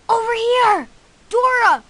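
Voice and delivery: loud call across the clearing. Acted. Calling Dora from the tree.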